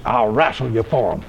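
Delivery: a lightly voiced tough country fella making a dare; a hint of Alec's blunt talk; gruff old-timer. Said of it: "that's kind of the way he talked".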